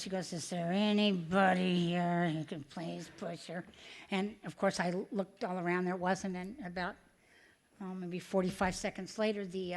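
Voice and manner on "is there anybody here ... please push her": lightly voiced, slowed stewardess on the intercom; a hint of a careful flight attendant making an announcement. Stewardess asking passengers over the intercom, lightly mimicked announcement voice. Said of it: "I could tell you in her voice".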